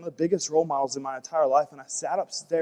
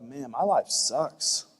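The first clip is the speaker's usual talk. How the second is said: mock envy; slower than usual. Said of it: "you're like".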